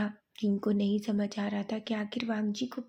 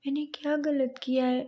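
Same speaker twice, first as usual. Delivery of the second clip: teary; 5 semitones higher than usual. Acted. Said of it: "आंसू भरी आंखों से".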